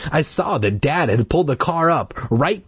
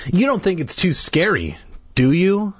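put-on higher, worried child's question; timid boy; 8 semitones higher than usual. A narrator's reading. Timid brother fearing the rides, anxious. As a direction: ask for reassurance, pitched up.

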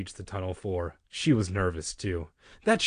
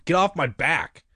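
loud, higher defensive outburst; mock indignation; 5 semitones higher, 5 dB louder than usual. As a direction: snap back in pretend annoyance.

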